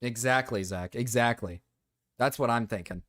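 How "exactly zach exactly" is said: usual speaking voice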